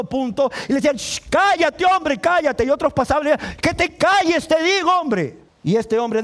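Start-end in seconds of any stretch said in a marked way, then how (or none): 1.0-2.6 high, insistent shushing; acted telling-off, pitch jumped up; scolding hush. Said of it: "Le reprendían". 3.6-5.4 high, exasperated order; acted crowd member silencing a nuisance; scolding. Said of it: "Le reprendían".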